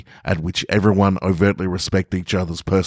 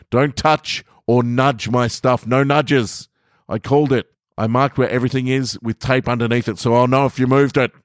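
smug warning; 6 semitones higher than usual. Acted. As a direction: lay down the law smugly. Narrator sets rules, high voice.

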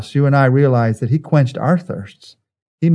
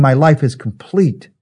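slower, steady and sure; triumphant completion. Shown as a demonstration. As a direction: say it as a finished life, fulfilled. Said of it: "He was saying".

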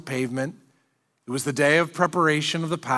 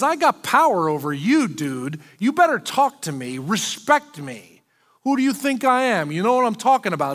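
higher, fast swaggering governor, a mock threat; bossy Pilate; 3 semitones higher than usual. Pilate bullying Jesus to talk, higher, fast and swaggering. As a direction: throw your weight around like a smug Roman governor. Preacher voices Pilate demanding respect.

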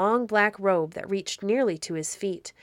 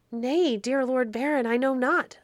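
near-weeping plea; 6 semitones higher than usual. A narrator's reading. Poor little Otto answers the Baron, mildly tearful and high. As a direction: plead like a small boy close to tears. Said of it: "and began to weep".

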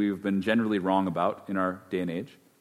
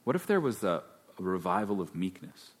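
softer, hushed musing question; quiet reflective question; 5 semitones lower, 8 dB quieter than usual. Real, not acted. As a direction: let it drop to a soft wonder. Reflective question, then repeated aloud.

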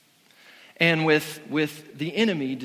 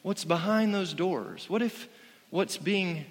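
lightly voiced serpent luring with questions, softer; sly tempting serpent; 4 dB quieter than usual. Preacher voicing Satan tempting Eve, softer and sly. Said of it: "Satan is starting to say".

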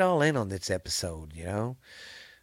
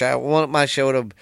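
hiccups. Real, not acted. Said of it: "excuse me, I got the hiccups".

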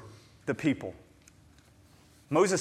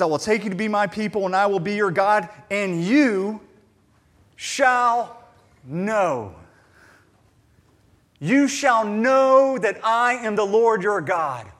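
slow, drawn-out stress on you shall know; emphatic scripture quote; 3 semitones higher, 6 dB louder than usual. Acted. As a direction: land each word: you shall know. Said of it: "when he says this".

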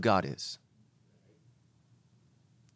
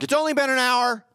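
high, loud mock-exasperated outburst; exasperated parent; 12 semitones higher, 5 dB louder than usual. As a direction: cry it out like a worn-out parent. Acted exasperated parent of crying kid.

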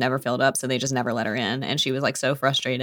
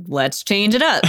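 guest rapper; 6 semitones higher, slower than usual. Retold or imitated. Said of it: "the guest artist comes in and they're like".

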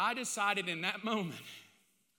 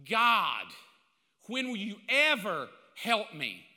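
God called out loud; a frustrated plea to God; retold cry to God; 4 dB louder, slower than usual. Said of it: "I had a thought".

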